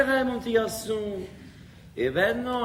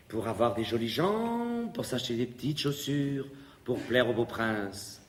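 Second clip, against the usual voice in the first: tender storytelling; 7 semitones lower, 6 dB quieter, slower than usual. A narrator's reading. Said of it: "conte de la sirène".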